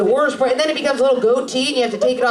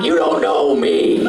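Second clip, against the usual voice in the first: deadpan; 12 semitones lower, slower than usual. Retold or imitated. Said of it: "I'm like".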